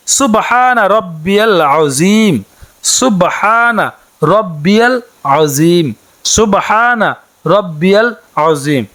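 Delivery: very slow Arabic recitation with long pauses between phrases; slow correct recitation. Shown as a demonstration. Teacher teaching the Sana correctly, slow recitation. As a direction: lay out each phrase slowly for learners. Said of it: "রুকুর তাসবিহটি হচ্ছে".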